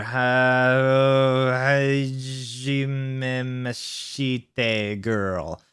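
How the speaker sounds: happy greeting. Acted. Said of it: "she said happily".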